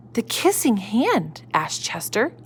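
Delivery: gentle storybook reading voice; reading to children. A narrator's reading. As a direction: read it like a bedtime story. Reading picture book to children.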